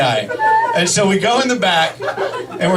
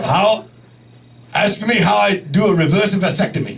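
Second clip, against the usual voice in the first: put-on halting Japanese-accented doctor; mock Japanese accent, words in bursts; imitated Japanese accent. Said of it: "this is his voice".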